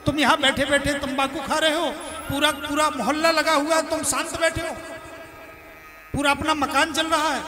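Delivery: angry son. Retold or imitated. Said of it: "गुस्सा फूटी उसकी".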